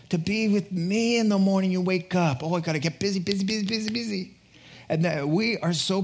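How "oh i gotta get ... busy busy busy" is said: hurried, rising mock-frantic chatter; mock busyness. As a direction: rattle off the repeated word, pitch climbing. Mimics frantic busy believer.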